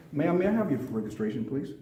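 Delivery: calm, courteous request; polite officer. Shown as a demonstration. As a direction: ask respectfully at a traffic stop. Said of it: "You see how you talk to people?".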